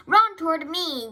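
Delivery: high, loud yell; urgent farmyard shout; gander's yell. A narrator's reading. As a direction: yell it out, starting high and falling. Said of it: "yelled the gander".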